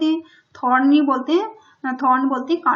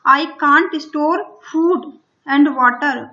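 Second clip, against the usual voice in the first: very slow, louder, every word spaced out; slow dictation; 4 dB louder, much slower than usual. Shown as a demonstration. Teacher reading the story line to Hindi-speaking pupils, very slow and loud. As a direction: read it word by word for the class. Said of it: "teacher reads lion's line slowly".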